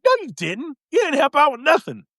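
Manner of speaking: high, mildly offended retort; mock indignant. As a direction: play India scoffing, pitch up. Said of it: "made India mad, like".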